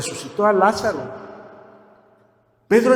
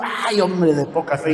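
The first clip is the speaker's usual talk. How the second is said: brusque rebuke. Retold or imitated. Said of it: "se lo echó acá como un costal".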